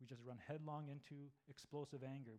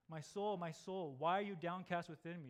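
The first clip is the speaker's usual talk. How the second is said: psalmist's lament; 3 semitones higher, 7 dB louder than usual. Acted. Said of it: "It's like the psalmist that says".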